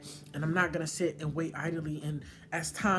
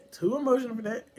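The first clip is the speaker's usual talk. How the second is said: laughing it off; 6 semitones higher, 4 dB louder, faster than usual. Real, not acted. Laughs off near tears.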